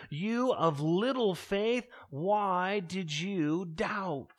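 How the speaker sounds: slow, lightly acted rebuke from Jesus; measured reproach. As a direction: stretch the words out as a mild reproach. Jesus gently reproves sinking Peter.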